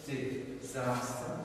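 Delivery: disaster said slowly, "di-ZAHS-tuh"; demonstrated pronunciation. Shown as a demonstration. Teacher modelling the word, slow disaster with long "ah". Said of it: "how do you pronounce this word".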